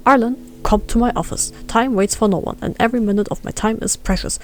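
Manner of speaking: lightly put-on stern boss giving orders; overbearing boss. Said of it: "Listen to my instructions and let's try again".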